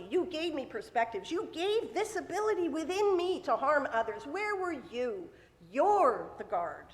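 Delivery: emphatic self-justifying challenge; protesting. Acted. Cain turns the blame on God, protesting. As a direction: argue back, punching the accusations. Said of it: "the question Cain is asking is saying".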